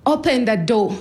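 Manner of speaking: retold yell. Dad keeps demanding entry, half-screamed. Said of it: "he kept screaming".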